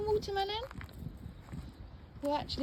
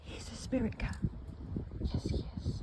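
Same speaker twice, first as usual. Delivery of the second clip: hushed whisper; 3 dB quieter than usual. Real, not acted. Whispering about her spirit cat. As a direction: whisper it like a secret.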